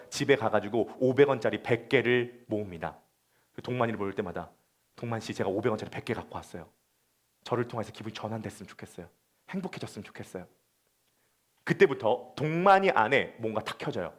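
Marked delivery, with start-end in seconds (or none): 5.0-10.5 soft, tender voice, much quieter; gentle offer. Retold or imitated. Eunha quietly encouraging Dongman, tender and soft. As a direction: coax him kindly like a shy friend.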